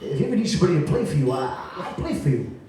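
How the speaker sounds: imitating a thick Rhode Island accent, chuckling through it. Pianist Mike offering to play for the teenage singer, in a thick Rhode Island accent. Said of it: "in his very thick Rhode Island accent".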